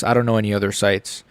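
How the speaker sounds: burpy, quiet line; words caught by a burp; talking while burping. Real, not acted. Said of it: "Excuse me, I keep burping".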